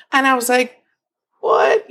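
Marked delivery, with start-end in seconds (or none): 1.4-1.9 voiceless, choked little question; retold tearful gasp. She hears she is hired, mock-tearful whispered disbelief. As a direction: imitate being too tearful to voice it. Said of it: "You know, just crying".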